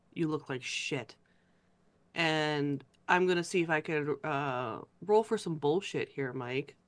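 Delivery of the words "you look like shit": deadpan, very dull, flat monotone delivery. A tabletop player voices her character speaking to him, in a very dull tone. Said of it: "in like in a very dull tone".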